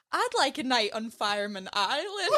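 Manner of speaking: put-on giggling Scottish accent; a laughing light Scottish hairdresser. Hairdresser's cheeky line in a laughing Scottish accent. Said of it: "my Scottish accent is terrible".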